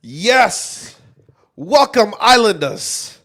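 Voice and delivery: loud, high-pitched mock British show opener; big drawn-out Love Island welcome, attempted British accent. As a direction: stretch it out in a hammed-up British accent. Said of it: "tried to go into a British accent".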